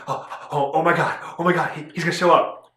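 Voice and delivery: hammed-up giddy excitement; Deadpool. Fan reacting like Deadpool to casting news, giddy excitement. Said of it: "I was like Deadpool's like".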